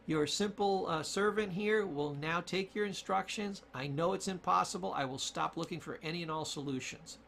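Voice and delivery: obedient servant brain. Acted. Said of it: "Your brain says".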